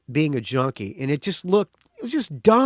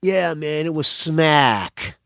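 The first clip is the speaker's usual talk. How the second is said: imitating Nikki; much slower than usual. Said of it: "of Nikki's words".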